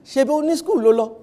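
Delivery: a hint of a suspicious mother; scolding mom. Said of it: "So your mom will say".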